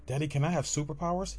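put-on a small child pleading with daddy. Child asking daddy to fly, high and eager.

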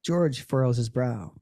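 slow, neutral describer read; audio description voice. Retold or imitated. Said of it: "That's literally what they say".

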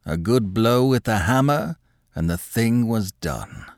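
measured, deliberate answer; unhurried, as if answering a question; slow and distinct. Acted. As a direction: place each phrase separately, slowing at the end. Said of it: "slowly and distinctly".

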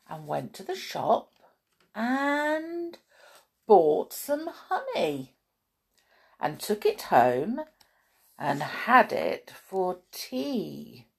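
slow storytelling with lingering key words; measured picture-book reading; children's story narration. A narrator's reading. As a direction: read it to small children, pausing between phrases.

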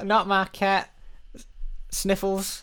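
comic heartbroken victim; mock distress. Victim mourns cat in improv.

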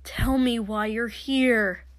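strained, urgent entreaty; pleading. Acted. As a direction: beg for an answer. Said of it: "Shoto pleaded".

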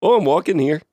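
mock Canadian accent with rounded vowels. Friend asks for walking here as a Canadian, mock Canadian accent. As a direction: put on a Canadian voice. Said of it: "Say I'm walking here in a Canadian accent".

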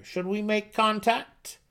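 an uneasy advisor pressing the king; worried gnome counselor. Acted. Counselor asks.

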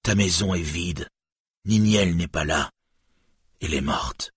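subdued, anguished grief; restrained anguish, sinking at the end. A narrator's reading. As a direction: break terrible news heavily. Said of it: "l'angoisse au cœur".

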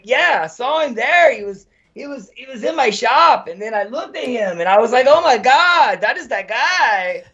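put-on high campy Hispanic accent, laughing through the end; very high, exaggerated Hispanic accent with laughs breaking in; gay Hispanic accent. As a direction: retell the witness in a hammed-up Hispanic voice. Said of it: "I found my gay Hispanic accent".

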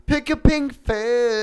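loud announcing. Acted. Game host call, loud and slow.

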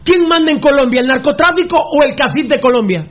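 pregunta retadora, con tono agudo; desafío acalorado. Real, not acted. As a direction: reta al rival subiendo la voz de tono. Reta al otro en la discusión. (desafío acalorado, en tono agudo)

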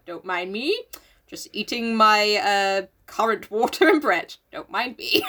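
mock-casual Lottie. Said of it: "Lottie being at the table like".

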